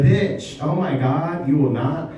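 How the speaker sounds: sassy, high gossip voice; a hint of sassy gossip; zesty gossip. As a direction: spill the tea with sass. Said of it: "I act really zesty".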